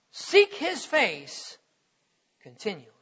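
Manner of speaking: slow down and let "continually" fall away to a hush; slow fade. Acted. Preacher closing the verse to the congregation, fading slowly. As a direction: draw out "Seek his face" then drop "continually" nearly silent. Slowing, fading scripture ending.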